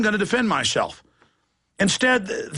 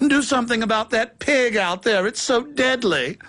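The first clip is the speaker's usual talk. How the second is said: lightly voiced frightened pig, higher; whimpering pig; 3 semitones higher than usual. Pig begging the humans for protection, mock-fearful whimper. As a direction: plead like a timid farm pig, a little put on.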